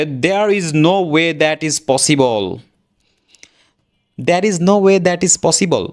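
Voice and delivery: "There is no way that is possible" word by word, slowly; slow full form. Shown as a demonstration. Teacher showing what not to say: slow careful words. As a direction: stiff textbook reading. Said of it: "এভাবে বলবো না আমরা".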